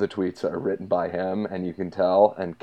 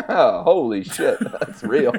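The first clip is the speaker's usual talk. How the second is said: laughing disbelief; 3 semitones higher, 4 dB louder, slower than usual. Retold or imitated. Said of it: "And I was like".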